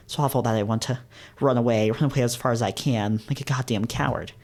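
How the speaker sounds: self-loathing confession, understated; dramatic first-person reading, mildly anguished; story narration. A narrator's reading. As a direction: let the words spill out steadily. Reads hero's spilling rant.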